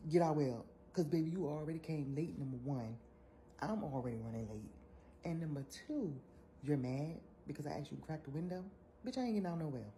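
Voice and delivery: loud defiant scolding; defiant rant. Retold or imitated. Rider refusing to leave, loud defiant scolding. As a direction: tell him off, loud and sure. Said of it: "like I ain't hear him".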